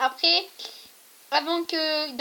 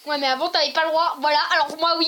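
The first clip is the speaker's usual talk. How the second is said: talking through a blocked nose; stuffed-up nose, nasal; 3 semitones higher, 6 dB louder than usual. Real, not acted. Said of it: "j'ai le nez bouché".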